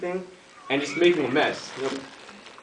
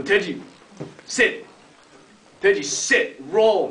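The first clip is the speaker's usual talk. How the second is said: firm, slightly raised trainer's orders; mock pet commands; 5 semitones higher, 4 dB louder, slower than usual. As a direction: order the pet about, lightly acted. Boy commands his pig in training.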